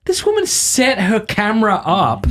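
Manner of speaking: sarcastic inner voice. Retold or imitated. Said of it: "I'm like".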